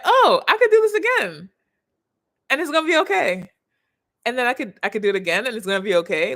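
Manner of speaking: like realising you survived and can do it again; excited relief. Retold or imitated. Imagined self-talk after opening up.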